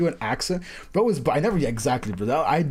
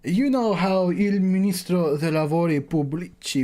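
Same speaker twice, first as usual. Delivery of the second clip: put-on slow, amateur Italian accent on a game script; reading game lines in a shaky mock Italian accent; a half-hearted Italian accent read at a slow pace; butchered Italian accent; 3 semitones higher than usual. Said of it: "me butchering an Italian accent".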